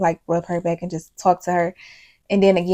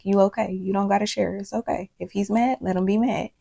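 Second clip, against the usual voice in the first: soft reassurance; 5 dB quieter than usual. Retold or imitated. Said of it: "she just needed a reminder, like".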